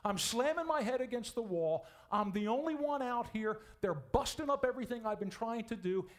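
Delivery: high, loud, fed-up complaining prophet; exasperated Elijah. Acted. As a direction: vent like a worn-out man at the end of his rope. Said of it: "He said exactly the same thing".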